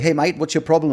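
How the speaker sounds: put-on amateur Australian accent for a joke; horrible Australian accent. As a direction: put on a rough imitation of an Australian. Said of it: "That's my horrible Australian accent".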